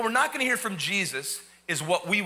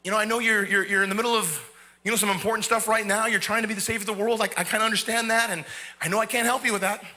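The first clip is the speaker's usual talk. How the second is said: timid thief's plea. Retold or imitated. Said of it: "he's got the little voice".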